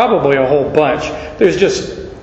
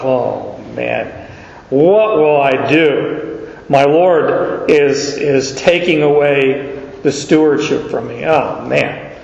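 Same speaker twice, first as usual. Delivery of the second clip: low, sagging mock despair, lower pitch; dismayed steward; 3 semitones lower, slower than usual. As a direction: groan it out like a man about to lose his job. Steward despairs at losing job.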